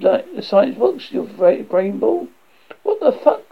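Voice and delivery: high, loud frantic voice; acted horror, pitched high; panicked. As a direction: blurt it out in rising panic. Panic as creature takes friend.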